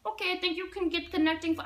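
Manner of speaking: put-on Russian-accented clerk, hurried. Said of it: "there's this Russian lady".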